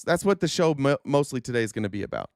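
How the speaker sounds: worn-out voice losing strength; hoarse voice. Real, not acted. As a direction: voice going hoarse, fading at the end. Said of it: "I'm losing my voice already".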